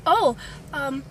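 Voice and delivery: halting, badly faked British accent; terrible British accent. Panicked student answering a classmate, in a bad British accent. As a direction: fumble a greeting in fake British. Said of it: "I replied in a British accent".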